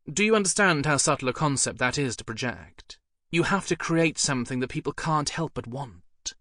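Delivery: lightly voiced cool posh English lady; bored cut-glass accent. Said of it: "her bored cut-glass accent".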